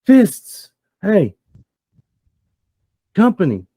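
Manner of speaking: loud, high calls in short bursts; screaming up. Acted. Lookout to his gang on the balcony, screaming up. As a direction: holler up to someone above. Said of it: "he screams up".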